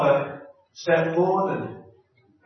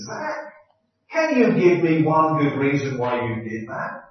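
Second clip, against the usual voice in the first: exasperated; 4 dB louder than usual. Retold or imitated. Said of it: "I gasped in exasperation".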